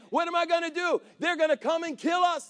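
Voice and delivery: a servant panicking at the army; freaking out. Retold or imitated. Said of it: "He's freaking out, man".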